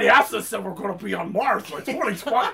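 quick, goofy spaceman patter; comic character question. Acted. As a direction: rattle it off as a silly spaceman. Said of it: "See your face doing that voice".

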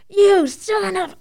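slow, high Boston Dorchester curse; cut-off Boston Dorchester swear; Boston Dorchester accent. Retold or imitated. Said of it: "the Boston Dorchester comes out of me".

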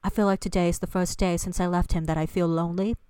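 amateur imitation of a British accent; put-on British accent. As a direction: recite it in a lightly faked British accent. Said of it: "That accent is, uh, perfect".

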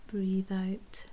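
ordinary talk

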